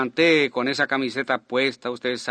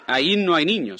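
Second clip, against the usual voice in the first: preaching; 4 semitones higher than usual. Retold or imitated. Re-enacting his sermon.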